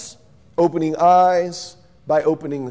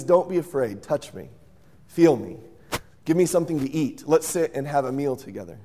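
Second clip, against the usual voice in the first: soothing reassurance; 4 semitones lower, 4 dB quieter than usual. Acted. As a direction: lower and softer, calm him down. Jesus calming frightened disciples.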